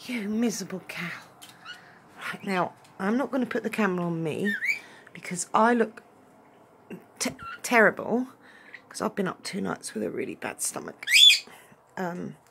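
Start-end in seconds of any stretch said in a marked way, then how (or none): 5.1-8.3 whisper. Real, not acted. Self-conscious aside.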